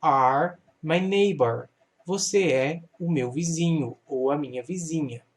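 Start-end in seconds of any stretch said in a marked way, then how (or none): 0.0-1.7 slow reading. Shown as a demonstration. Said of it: "Então, you".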